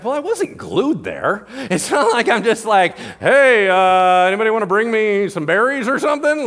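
high, loud, laughing take on a bored Jesus; mock Jesus voice. Preacher plays Jesus scoffing at sitting around, loud and laughing. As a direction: belt it out like Jesus mocking sitting idle.

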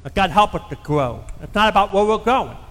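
earnest, measured pastor praying aloud; closing prayer. Acted. Pastor praying over his church at sermon's end, earnest prayer voice. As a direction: pray over the congregation, steady and sincere.

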